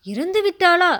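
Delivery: stunned, rising disbelief; shocked cry. Acted. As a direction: blurt it out in shock. Quoted cry of old sculptor.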